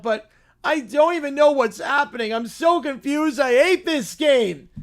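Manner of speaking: put-on bratty little kid whining about football; pouty spoiled child, mock outrage; whiny kid voice. Streamer reading a silly kids' skit, as a whiny child.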